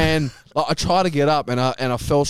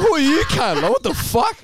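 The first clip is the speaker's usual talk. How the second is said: mock angry yell; 12 semitones higher than usual.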